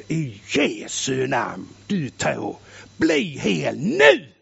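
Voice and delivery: slow, deep commanding prayer; commanding healing prayer. Retold or imitated. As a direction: command the toe to heal, slowly. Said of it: "Och så". (långsam, djup befallande bön om helande)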